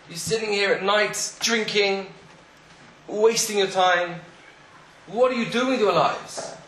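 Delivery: high, scolding lecture to drinkers in a pub; stern rebuke. Acted. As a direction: tell them off like a disappointed rabbi. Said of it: "he launched into them".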